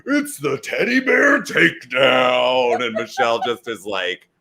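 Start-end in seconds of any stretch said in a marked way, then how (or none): 0.0-2.8 loud, slow, drawn-out announcer call; hyped announcer. Retold or imitated. Bella twins announcing the event, hyped announcer call. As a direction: boom it out like a ring announcer. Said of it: "And they're like".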